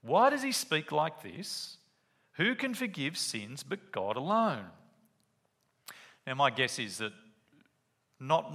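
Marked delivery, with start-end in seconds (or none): 0.0-4.7 shocked critics. Retold or imitated. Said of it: "They were shocked".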